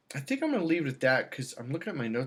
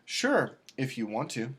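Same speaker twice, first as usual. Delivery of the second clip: grudging tone; slower than usual. Shown as a demonstration. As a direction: show a reluctant yes. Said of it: "Now it's the tone".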